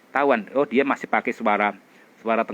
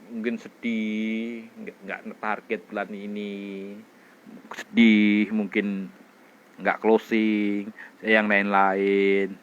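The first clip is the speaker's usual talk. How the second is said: sad expression demo; slower than usual. Shown as a demonstration. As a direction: let the sadness drag the words down slowly. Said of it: "Dia latihan ekspresi sedih". (ekspresi sedih yang lambat dan lirih)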